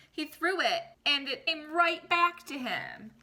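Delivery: storybook read-aloud voice for the class; expressive picture-book reading; reading to children. Acted. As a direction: read it like story time for kids. Teacher reads picture book aloud.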